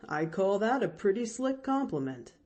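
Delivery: cheerful driver cutting in; coachman Timothy. Acted. Coachman reassuring the girl, lightly voiced man.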